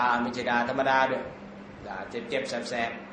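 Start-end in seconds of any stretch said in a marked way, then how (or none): 1.9-3.0 slow, soft and low; stinging insult. Shown as a demonstration. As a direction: linger over the sting quietly.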